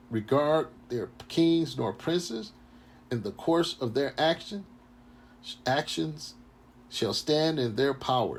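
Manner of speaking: slow, measured preaching read; scripture reading. Acted. Street preacher reads Esdras to listeners, slow and measured. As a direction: read the prophecy out slowly.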